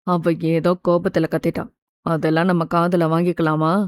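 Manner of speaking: low-pitched, soothing uncle voice; gentle reassurance. A narrator's reading. Uncle calming his scolded niece, tenderly reassuring.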